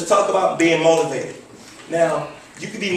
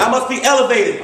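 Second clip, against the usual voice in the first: raised, rallying pitch; with more passion; 5 semitones higher than usual. Shown as a demonstration. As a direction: lead the chant with excitement. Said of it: "I don't feel you yet".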